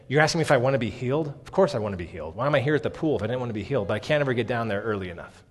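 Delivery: put-on fast, grumbling old man's retort; crotchety grumbling. The old man answers Jesus's question, crotchety and fast. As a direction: brush it off like a cranky old man hearing a stupid question. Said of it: "the crotchety grumblings of an old".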